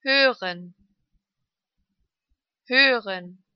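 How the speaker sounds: long ö in "Hören". Shown as a demonstration. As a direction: hold the ö of "Hören". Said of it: "Lang ausgesprochen".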